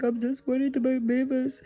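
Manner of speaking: a touch of teary worry; mildly tearful. Retold or imitated. Answering her son about the missing cat, mildly tearful. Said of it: "I was like".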